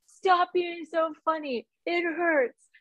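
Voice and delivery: high, drawn-out pleading whine; mock yelling. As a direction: re-enact a pained protest without real volume. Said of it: "I would yell at him".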